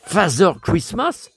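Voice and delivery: Father Christmas with a doubtful rising end; puzzled question. Shown as a demonstration. Doubting the book's phrase to viewers, puzzled rising question. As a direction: repeat it as if you can't believe it. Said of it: "J'ai jamais vu ça".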